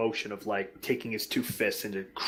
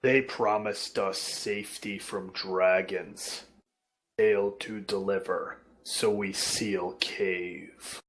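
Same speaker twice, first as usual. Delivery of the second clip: slow, low broken speech; a simple brute explaining, slowing down; giant; 4 semitones lower, slower than usual. Acted. Giant explaining why they sealed cave, slow.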